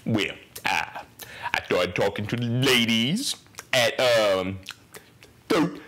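put-on halting old comedian dad; John Witherspoon. Son answering about women in his dad John Witherspoon's voice. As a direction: drag it out, then rise on the last word. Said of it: "In my dad's voice, John Witherspoon voice".

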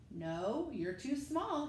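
a lightly voiced father saying no kindly but firmly; dad refusing.

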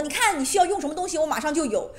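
lightly imitated maternal pride; proudly, imitating mother. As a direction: quote a mother's proud claim, lifted and quick. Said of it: "她会很骄傲的跟我说".

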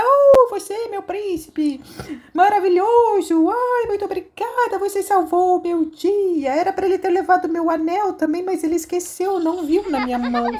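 high, breathless toy princess. Acted. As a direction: gush thanks to her prince in a high voice. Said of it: "E aí a princesa". (princesa encantada agradecendo ao príncipe, voz aguda)

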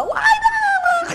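shrill high yelled lie down; panicked shout. Retold or imitated. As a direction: scream it like the owners did. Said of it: "you should have heard the".

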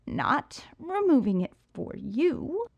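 strained grunt under a load. Acted. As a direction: grunt it while lifting. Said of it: "I grunted".

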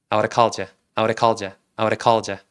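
"I would have called you" as "ah-woo-reh-call-jya"; low, even drill of "I would have called you", tapped D, no H; easy linked pronunciation. Shown as a demonstration. Teacher drilling students in the linked, reduced pronunciation. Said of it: "발음을 쉽게 하는 법".

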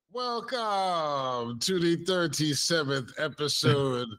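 stretched-out fake Caribbean lilt; bad Caribbean accent. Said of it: "with the bad Caribbean born in trouble accent".

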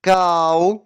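"cow" stretched out slowly; slow, drawn-out "cow". Shown as a demonstration. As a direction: draw the word out for the kids. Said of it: "промовимо це слово повільно".

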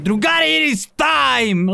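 slow trailer voice; epic announcer. Pretend. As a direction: boom it out like a trailer. Dramatic announcer line.

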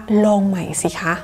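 slow, kindly teacher's nudge; encouraging smile. Shown as a demonstration. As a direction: coax the pupil along slowly, with a smile. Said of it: "ให้กำลังใจเขาโดยการยิ้ม". (พูดช้า ๆ ยิ้มให้กำลังใจ)

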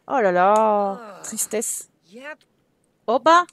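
mock sadness. Mock pity for sad Sim.

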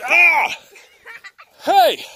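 loud high yelp; startled laughing shout. Real, not acted. Son attacks with Nerf bullets.

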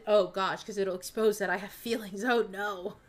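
loud, sarcastic mock horror with a laugh; mock dismay. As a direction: pretend it's a terrible scandal. Sarcastic pretend dread of exposing feelings.

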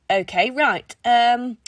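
awkward, halting, hesitant; uncomfortably. Acted. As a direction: stumble through it, lost for words. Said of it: "King said uncomfortably".

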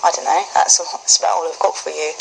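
light, casual British accent; slightly unsure attempt at a British accent. Shown as a demonstration. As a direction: keep up a modest British accent. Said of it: "with a British accent".

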